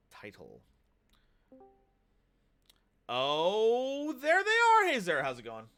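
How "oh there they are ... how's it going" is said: put-on old man voice. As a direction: play a jolly old man greeting guests. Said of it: "I'm gonna stop doing my old man voice".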